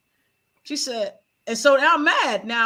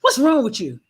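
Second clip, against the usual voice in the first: granny's question; 5 dB louder than usual. Retold or imitated. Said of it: "she said".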